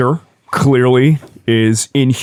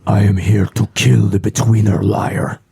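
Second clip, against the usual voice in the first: whispering fish creature. Acted.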